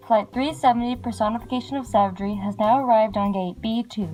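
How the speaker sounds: over the intercom. Acted. Airport announcement over speakers.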